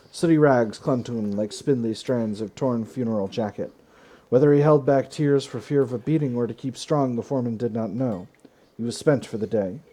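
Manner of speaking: emphatic narrator, punching each sentence opening; story read-aloud with loud, driven openings; dramatic story narration. Acted. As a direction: read the event like a grim tale. Reads event story aloud.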